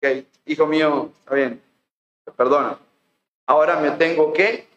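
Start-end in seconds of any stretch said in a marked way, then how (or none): 0.0-2.8 lower, lightly voiced forgiving father; a hint of a patient, fatherly God; gently forgiving father. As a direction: grant pardon calmly in a lowered voice. Acts out God forgiving the sinner.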